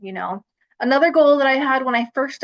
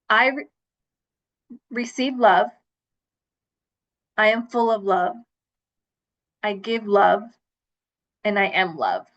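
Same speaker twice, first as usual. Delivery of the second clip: reciting a mantra. Shown as a demonstration. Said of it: "Let me give you my mantra first".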